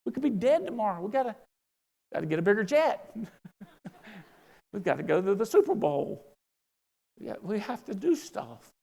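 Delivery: high-pitched mock outrage at Tim; excited protest. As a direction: squeal it like you can't wait another day. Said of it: "I was like".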